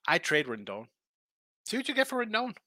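a breathy conspiratorial whisper; whispered aside. Real, not acted. Host confiding his trade idea to listeners, whispered. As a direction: lean in and whisper the advice.

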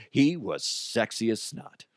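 chuckling through the words; laughing. Real, not acted. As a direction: laugh while bragging about yourself. Self-mocking joke with laughter.

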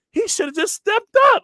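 high, loud frustrated outburst; frustrated at himself. Retold or imitated. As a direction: vent the anger at the quarterback's mistake. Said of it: "I'm feeling mad about myself".

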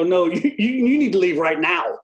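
laughing through a half-mock shout; laughing insistence. Telling the smoking teammate to leave, laughing mock shout. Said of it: "And I go".

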